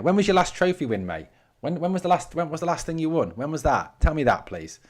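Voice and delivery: high, needling question; mocking taunt. Real, not acted. Taunting an Everton fan in chat.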